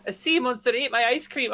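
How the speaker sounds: lightly put-on Scottish accent; a hint of Scottish brogue. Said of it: "my terrible Scottish accent".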